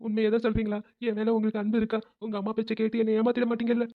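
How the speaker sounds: put-on whimpering questions; fake tearful pleading. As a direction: seek reassurance through pretend tears. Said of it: "நான் நடிக்கிறேன்றது". (போலி அழுகையோடு கெஞ்சல்)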